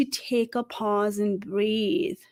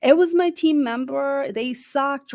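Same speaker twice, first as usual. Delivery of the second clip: mock blaming others; 3 semitones higher than usual. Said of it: "blame other people".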